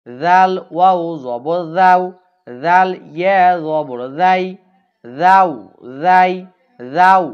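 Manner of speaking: each হাউ and হাই said loud, clear and drawn out; teacher chanting the drill loudly; clear recitation drill. Shown as a demonstration. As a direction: drill the syllables loud and distinct for pupils to repeat. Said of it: "প্রত্যেকটা শব্দ কিন্তু দুইবার করে বলতেছি".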